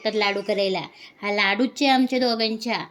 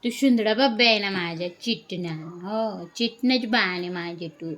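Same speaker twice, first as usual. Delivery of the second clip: put-on lightly cooed baby talk, a bit fast; mild sing-song cooing at the baby; 3 dB louder than usual. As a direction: coo it to the little one, sweetly lisping.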